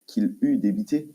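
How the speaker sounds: slow, pompous conjugation recital; haughty aristocratic french. Pretend. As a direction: recite each verb form grandly. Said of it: "euh, au plus que parfait".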